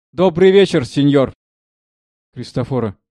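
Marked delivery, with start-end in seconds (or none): 0.1-1.3 high, loud bowing greeting; obsequious greeting. Acted. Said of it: "Низко кланяется".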